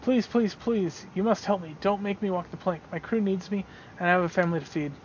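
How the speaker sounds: a mild mock plea for mercy; pleading prisoner. Prisoner begs not to walk the plank, mildly pleading.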